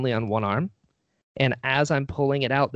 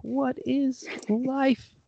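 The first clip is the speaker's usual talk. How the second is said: awestruck wonder; 10 semitones higher, 3 dB quieter, much slower than usual. Retold or imitated. Awestruck after meeting his idol.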